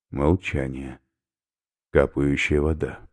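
usual speaking voice

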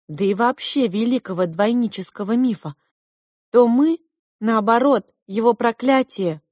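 lofty twin voice, phrase by phrase; twins' character voice. A narrator's reading. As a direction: declaim it high, as self-important twins. Twins declaim about themselves.

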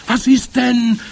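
high, loud witch query; questioning witches. A narrator's reading. Other witches ask the screamer what is wrong, questioning. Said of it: "fragten die anderen".

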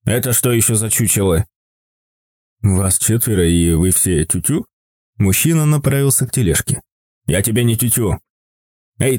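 a lightly voiced old man, bristling; gruff old man voice. A narrator's reading. Old man confronts stranger. (низкий ворчливый голос старика)

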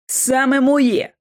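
drawn-out, mildly angry rebuttal; cross retort. A narrator's reading. Lockwood contradicts Kipps, cross retort. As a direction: insist on it, slowly and firmly. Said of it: "заперечив Локвуд, сердито скуйовдивши".

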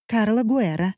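hushed, scared «Карла Гуэра»; timid «Карла Гуэра», barely breathed; frightened rustle. Acted. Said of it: "прошелестели на том конце перепуганно".

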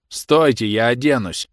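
shouted protest. A narrator's reading. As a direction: call out over the men dragging you. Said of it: "и крикнул".

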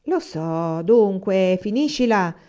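irritated, cutting her off; mildly annoyed, wants her to stop. Acted. Anania telling Agata to stop teasing, annoyed. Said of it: "disse egli infastidito".

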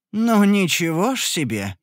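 drawn-out, taken-aback exclamation; surprised. Acted. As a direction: react in mild shock, stretching the words. Hero shocked at the prices. (удивлённо, протяжно)

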